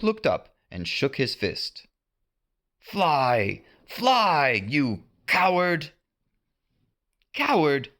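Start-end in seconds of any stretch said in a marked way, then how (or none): 2.8-5.9 Hook taunting. A narrator's reading. 7.3-7.9 indignant echo. A narrator's reading. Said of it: "answered Peter".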